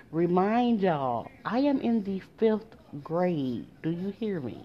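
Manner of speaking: slow, deliberate stress on "fifth grade"; slow emphatic reminder. Real, not acted. Storyteller reminding listeners of being in "fifth grade", slow and emphatic. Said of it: "I'ma keep saying that to let y'all know".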